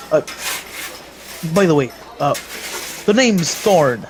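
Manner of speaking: a hint of a busy dwarven smith checking his stock; dwarf smith. Dwarf smith Thorn greets a customer, mildly voiced dwarf.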